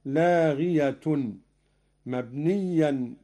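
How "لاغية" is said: لاغية ending in "-tun"; nominative when joined. Shown as a demonstration. Teacher showing the joined reading, لاغية ending in "-tun". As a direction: sound the final ة of لاغية as "tun". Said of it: "وإذا وصل".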